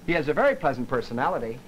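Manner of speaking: PERSONALITY held level, then left to fade into silence; held pitch, trailing off. Shown as a demonstration. Lecturer showing faint praise of someone, voice left trailing off. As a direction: keep "personality" at a middle pitch and let it trail away. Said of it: "keep it up at pitch two".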